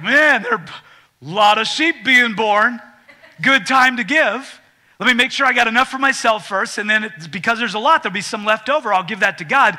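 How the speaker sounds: a loud, smug giver thinking of himself first; voiced selfish giver. Voicing a self-serving giver.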